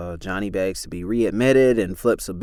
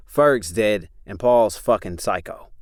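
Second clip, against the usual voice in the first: snapped; 3 dB louder than usual. Acted. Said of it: "Chris snapped".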